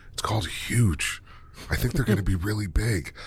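hushed, half-whispered insider tip; retold whisper. Hockey dad sharing a stock tip with the speaker, mock whisper. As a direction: imitate a conspiratorial dad's whisper. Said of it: "And he whispered, he's like".

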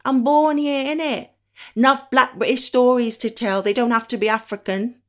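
loud, high-pitched insistence on belonging; emphatic protest. Acted. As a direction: start high and forceful, easing slightly. Acts out Black British person objecting.

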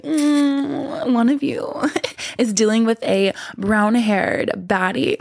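hushed, mysterious fortune teller; lightly voiced psychic reading; card reader voice. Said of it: "I'm acting like I'm a, a card reader".

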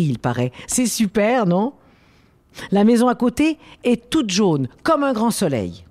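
voix de conte douce et vive; reading to a toddler. Acted. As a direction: lecture animée pour enfants. Frida's speech read to children. (comme on lit une histoire à un tout-petit)

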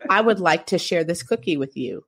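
lightly robotic, measured delivery. Retold or imitated. Wife offering husband a cookie, mildly robotic. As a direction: imitate yourself talking a bit like a robot. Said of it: "I did the robotic voice".

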